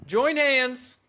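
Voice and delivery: high, laughing church invitation; laughing preacher voice. Pretend. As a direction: giggle through a mock sermon line. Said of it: "mocking the preaching".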